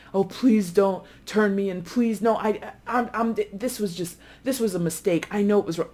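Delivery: a touch of tearful begging, pitch up; mock pleading. Caught thief begging not to be turned in, mild pleading. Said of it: "they often might cry or plead or beg".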